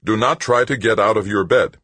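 automated warning from the bed monitor; synthesized computer voice. A narrator's reading. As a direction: announce it like a hospital computer. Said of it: "demanded a computer's synthesized voice".

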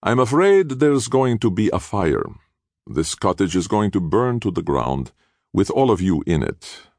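high, theatrical mock regret; dramatic sighing. A narrator's reading. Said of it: "Castiglione sighed dramatically".

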